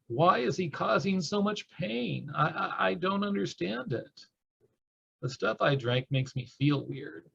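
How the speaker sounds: put-on high, bewildered voice of a frightened child; scared young child. Survivor reads poem as self at age three, scared.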